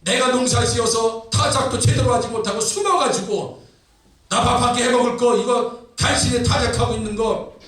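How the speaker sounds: acted, insistent complaint pouring out; indignant protest. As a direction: protest to God as an aggrieved Gideon. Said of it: "기도원이 하나님의 사자에게 막 항변합니다". (따져 묻듯 항변하는 연기)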